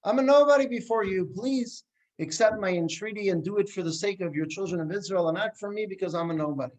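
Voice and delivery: mock tearful cry to God; rabbi's plea. Rabbi crying to God before the prayers, lightly pleading. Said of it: "he's crying to the Almighty".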